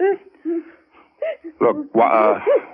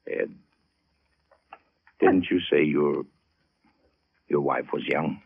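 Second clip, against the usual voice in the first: hushed; 11 semitones lower, 6 dB quieter than usual. Acted. Detective finds the body.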